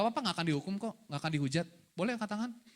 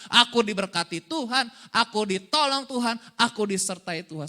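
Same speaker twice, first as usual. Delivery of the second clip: firm, louder confession of faith; spoken declaration; 6 dB louder than usual. Shown as a demonstration. Preacher modelling what his child says each morning, firm loud declaration. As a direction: declare it phrase by phrase, emphatically. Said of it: "setiap pagi ngomong gini".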